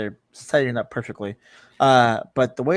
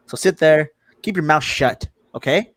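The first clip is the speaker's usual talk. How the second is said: mock bossy order; 2 semitones higher, 6 dB louder, slower than usual. Teasing co-host to stay quiet.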